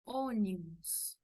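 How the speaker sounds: "ônibus" slowly, with closed first o, "OH-nee-boos". Shown as a demonstration. Teacher models example word slowly, "ônibus" with closed O. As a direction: draw out "ônibus" with a rounded closed O. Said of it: "acento circunflexo".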